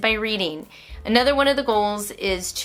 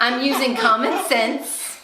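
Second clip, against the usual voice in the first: slow, laughing through it; 4 semitones higher, 3 dB louder, slower than usual. Real, not acted. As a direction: let the laugh carry the line slowly. Still laughing at remark.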